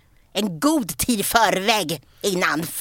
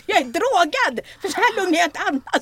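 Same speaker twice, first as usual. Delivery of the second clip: mock confession; 7 semitones higher than usual. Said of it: "Jag tänkte säga".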